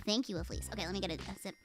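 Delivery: normal talking voice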